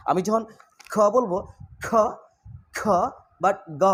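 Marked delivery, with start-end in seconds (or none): 1.8-2.8 aspirated "খ", breath released with the sound; খ with a puff of air. Shown as a demonstration. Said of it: "বাতাস বের হবে". 3.8-3.8 unaspirated, voiced "গ" from the back of the mouth; গ without air. Shown as a demonstration. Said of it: "গ বললে কিন্তু নড়ছে না".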